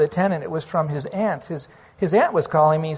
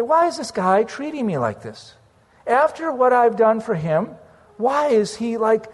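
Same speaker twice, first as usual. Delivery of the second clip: upset complaint; 5 semitones higher than usual. Retold or imitated. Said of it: "I started getting upset".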